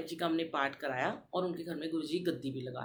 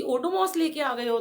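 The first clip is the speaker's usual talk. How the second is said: louder, higher, slow exasperated scolding; angry retort; 9 semitones higher, 7 dB louder, slower than usual. Retold or imitated. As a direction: scold him for bringing the wrong cream. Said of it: "मेरे को बड़ा गुस्सा आया". (गुस्से में ऊँची, धीमी डाँट)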